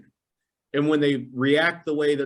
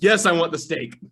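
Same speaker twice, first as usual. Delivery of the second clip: laughing; 5 semitones higher, 4 dB louder than usual. Retold or imitated.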